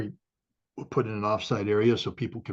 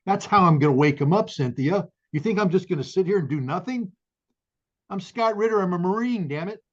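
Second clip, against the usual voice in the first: fired up, much higher and louder, rallying; rising to a furious battle cry; pissed off; 8 semitones higher, 3 dB louder than usual. Real, not acted. To the host, a Marine vowing to fight: real fury. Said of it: "And I am pissed off".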